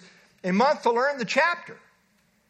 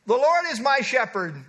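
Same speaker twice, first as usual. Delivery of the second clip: put-on a boy reciting proudly, a touch higher and louder; proud child recitation; 4 semitones higher, 4 dB louder than usual. Little Ricky at the microphone, proudly reciting. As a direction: chest out, first line announced with pride. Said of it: "said proudly".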